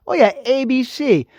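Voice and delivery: mock-casual answer to his own question; sarcastic aside. Vlogger answering his own question to viewers, sarcastic. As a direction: drop the answer like it's obvious.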